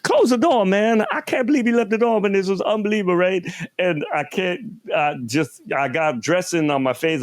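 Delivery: high-pitched, indignant talking mayonnaise jar; Eddie Murphy. Retold or imitated. Talking mayonnaise jar complaining in a commercial, high comic impression. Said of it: "doing the voice of Eddie Murphy".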